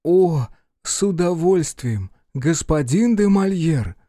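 high, slow royal voice; a monarch graciously drawing out his assent; Louis. Acted. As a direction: pitch it up, measured and formal. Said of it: "Голос Людовика".

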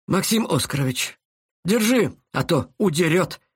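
commanding shout; ordering. Acted. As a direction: bark the order to the guard. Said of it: "приказал Корнеев". (приказным тоном)

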